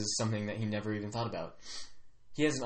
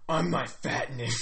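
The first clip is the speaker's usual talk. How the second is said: lightly voiced grumbly chief, drawn out; a hint of a weird grumbly accent, slowly; 2 semitones higher than usual. Chief naming his own title, lightly grumbly. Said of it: "some sort of weird grumbly accent".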